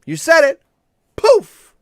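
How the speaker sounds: high, loud booming mock genie. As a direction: boom it out like a joke genie. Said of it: "Genie goes".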